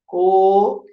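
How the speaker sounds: "Co-" held long and level, cut off from the rest; isolated, stretched "Co-" of a child decoding; syllable-by-syllable reading. Retold or imitated. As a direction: sound out "Co-" alone as a drawn-out syllable. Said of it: "ela leu assim".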